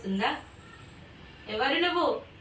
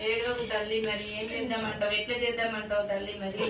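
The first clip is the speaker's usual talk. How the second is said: softer, consoling voice; soothing; 2 semitones lower, 4 dB quieter than usual. Real, not acted. Ritual leader consoling a weeping mother goddess, soothing. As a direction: gently coax and console.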